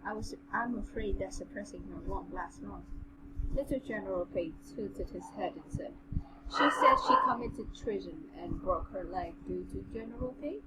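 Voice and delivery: even, measured story reading; story narration. A narrator's reading. Reading the general's tale to a friend, measured narration. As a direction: read it aloud in an understated narrator's voice.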